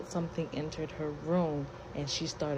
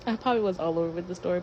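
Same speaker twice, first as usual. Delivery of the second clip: laughing; 2 semitones higher, 5 dB louder, much faster than usual. Real, not acted. Laughs at her rambling story.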